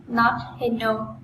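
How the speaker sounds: "hello" said as "heno", N in place of L; mispronounced "hello" as "heno"; wrong "hello" with N. Shown as a demonstration. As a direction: slowly show the N mistake in "hello". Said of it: "not hello".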